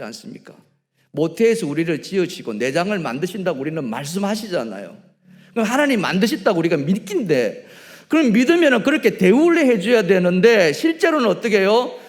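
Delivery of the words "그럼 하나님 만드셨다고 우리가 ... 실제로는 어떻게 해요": loud, rising pulpit voice; booming sermon emphasis; fervent preaching. Acted. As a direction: preach it with full force. Preaching at full force.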